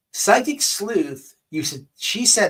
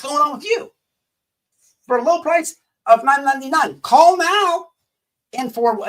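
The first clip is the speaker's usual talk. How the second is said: higher, louder hammed-up TV psychic ad; mock infomercial pitch; 7 semitones higher, 5 dB louder than usual. Mocking the psychic's paid Ted Bundy readings, loud hammed-up ad voice. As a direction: sell it like a late-night hotline commercial. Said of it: "there's a special infomercial".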